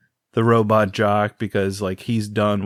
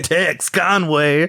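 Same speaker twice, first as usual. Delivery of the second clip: drawn-out, slightly raised Texas twang; Texas accent; 4 semitones higher, much slower than usual. Acted. Host introduces the cowboy mentor, Texas accent. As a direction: stretch the name out like a Texan. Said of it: "Speaking of Texas accents".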